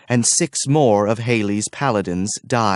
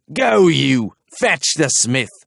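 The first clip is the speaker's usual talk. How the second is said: louder, curt officer's command; commanding order; 4 semitones higher, 3 dB louder, slower than usual. A narrator's reading. Archer orders his soldier, curt command. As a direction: bark the order at him.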